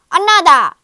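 loud, high growling shout; growled demand. A narrator's reading. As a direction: roar the demand greedily. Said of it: "growled the giant".

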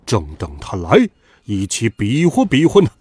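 lightly voiced villain relishing a fight; a hint of low demon-king voice; pleased demon king. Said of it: "满心欢喜".

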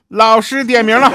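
high, loud warning cry; mock alarm call. Warning classmates that the teacher is taking attendance, loud mock alarm. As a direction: call it out urgently to the whole room.

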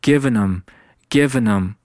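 "given 'em" slowly, as one word without h; slow teaching demo of "given 'em"; linked, H dropped. Shown as a demonstration. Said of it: "given和him变成".

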